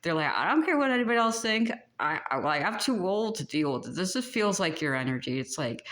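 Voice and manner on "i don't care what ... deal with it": a hint of a brash old-timer, higher and fast; sassy old grandparent. Psychic voicing a grandparent spirit, lightly sassy and brash. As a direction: toss it off like a cranky elder who's done caring. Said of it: "they like to swear like a sailor".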